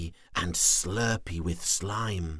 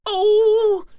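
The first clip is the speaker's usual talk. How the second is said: grumbling; 14 dB louder than usual. Acted. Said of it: "he grumbled".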